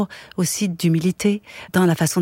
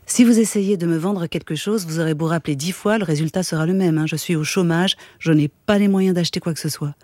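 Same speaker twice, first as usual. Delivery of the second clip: steady, even reading of a novel; calm literary narration; story narration; 3 semitones lower than usual. A narrator's reading. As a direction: read the chapter aloud, unhurried. Reads a Murakami novel aloud.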